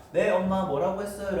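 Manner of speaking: asking back. Acted. Daughter who missed what mother said, mildly acted asking back. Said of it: "다시 되물어보겠죠".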